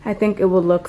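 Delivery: breathless, puffing between words; out of breath. Real, not acted. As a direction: talk while catching your breath. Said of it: "sorry, I'm so out of breath".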